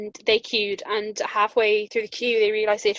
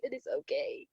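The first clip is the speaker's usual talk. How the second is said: squeaky, far higher and soft, through the pain; mock pained reply; 12 dB quieter than usual. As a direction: squeak it out while hurting. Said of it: "And I was like".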